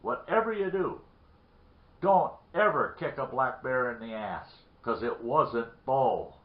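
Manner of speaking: loud, heavily punched "don't ever"; emphatic acted warning. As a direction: drive it home, dragging out "wasn't Bo". Bloodied man delivers warning punchline.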